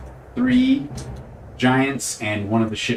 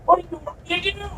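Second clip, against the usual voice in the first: hollering; faster than usual. Acted. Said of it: "Frank's still hollering through the".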